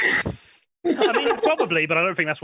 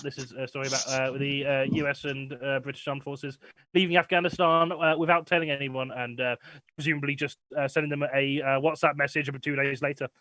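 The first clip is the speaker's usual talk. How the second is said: softer, as if drifting off mic; quiet; 4 semitones lower, 5 dB quieter than usual. Real, not acted. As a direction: voice drops much softer. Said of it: "You went a bit quiet for me".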